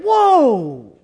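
high, loud amazed whoa. Retold or imitated. Students watching the vial turn blue, loud amazed whoa. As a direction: gasp in wonder like kids.

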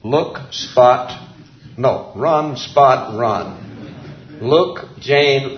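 word-by-word schoolbook recital; separate, simple little words; primer reading. Acted. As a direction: read it like a first reader. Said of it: "one of my favorite textbooks".

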